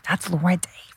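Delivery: whispering to a friend, starstruck; a starstruck fan's whisper; retold whisper. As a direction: hush it so only your friend hears. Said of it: "I was like, I'm like".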